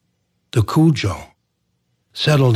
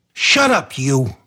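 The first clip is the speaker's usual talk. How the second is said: curt shout; 3 semitones higher, slower than usual. Acted. Donald silences the old guy.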